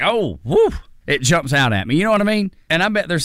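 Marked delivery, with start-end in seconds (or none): 0.0-0.7 mock startled "oh," then a high whoop; startled reaction. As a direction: act out being caught off guard. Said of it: "I'm just like".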